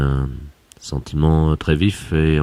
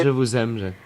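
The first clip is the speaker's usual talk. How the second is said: lovestruck sigh; 7 semitones higher, 5 dB quieter than usual. Acted. Boss declares love.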